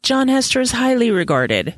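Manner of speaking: with a touch of mischief; sly, teasing tone; mischievous. Retold or imitated. The landlady teasing Diana about Hester, mischievous. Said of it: "with a touch of mischief".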